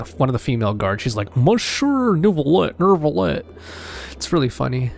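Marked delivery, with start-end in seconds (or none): 1.4-3.4 light mock French accent, slow; mimicking a guard's French accent. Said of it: "Meripede has that accent".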